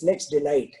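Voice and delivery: low, even, untroubled recital; lightly acted calm reassurance. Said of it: "The minister still is calm".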